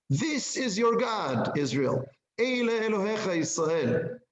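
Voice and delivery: hammed-up exultant announcement; triumphant proclamation. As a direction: proclaim it like the golden-calf worshippers. Idolaters proclaiming found God.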